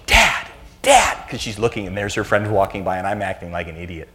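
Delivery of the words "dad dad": high mock-pleading "Dad, Dad"; embarrassed teen. Teen daughter begging embarrassing dad to stop, high mock plea. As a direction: beg him to stop, squeaky and mortified. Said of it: "She'd go".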